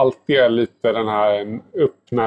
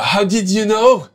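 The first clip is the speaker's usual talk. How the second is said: high, mock-amazed English question; 8 semitones higher, 3 dB louder than usual. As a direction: act out the host's astonishment, pitched up. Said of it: "Hon bara". (förvånad fråga, ljust spelad, som värden vid provningen)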